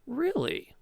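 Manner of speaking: high, falling, knowing okay; satisfied thug. Acted. Thug accepts Petra's password, high and knowing. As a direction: seal the deal with a nod in the voice.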